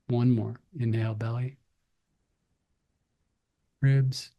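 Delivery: spaced-out breathing cues with long pauses; guided breathing. Real, not acted. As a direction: lead them gently through each breath, leaving room to breathe.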